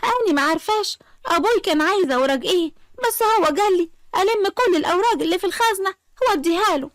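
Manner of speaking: high-pitched, mildly panicked pleading; frightened pleading. Acted. Asmaa begging her mother-in-law to let her go, pleading. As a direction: give in and beg to be let go. Asmaa begs as hair is pulled.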